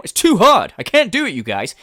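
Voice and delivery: whiny mock. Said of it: "he would fucking quit".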